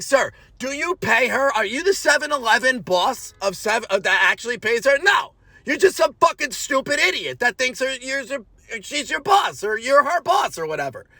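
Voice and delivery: scolding a rude stranger with rising heat; retold angry rant. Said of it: "I just kept saying".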